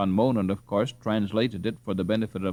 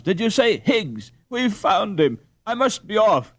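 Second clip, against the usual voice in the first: excited; 10 semitones higher, 4 dB louder than usual. Acted. Hans excited at finding Higgs.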